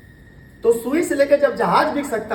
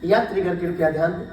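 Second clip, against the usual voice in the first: station PA announcer voice; echoing train announcement; 4 semitones lower, 4 dB quieter than usual. Retold or imitated. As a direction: announce it like a railway loudspeaker. Mimics railway station announcement.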